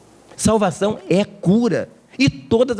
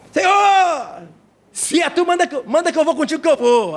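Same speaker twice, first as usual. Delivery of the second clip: high, eager plea as Peter, higher voice; 8 semitones higher than usual. Acted. Preacher voicing Peter, eager and high. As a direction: Peter begging to walk on water.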